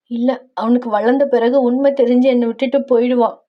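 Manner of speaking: a touch of plaintive upset; lightly voiced anxious, hurt mother; tearful worry. Mother fearing her son will leave, mildly tearful worry.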